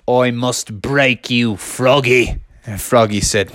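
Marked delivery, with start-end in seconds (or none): 0.1-2.4 slow, low fighter's threat; lightly voiced menacing boxer, words spaced out; low and deliberate warning; Kevin the kangaroo's threat. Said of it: "Kevin the kangaroo said".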